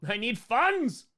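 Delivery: high, loud, stretched-out cry; playful loud plea; mock demand. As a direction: call it out high, dragging the last word.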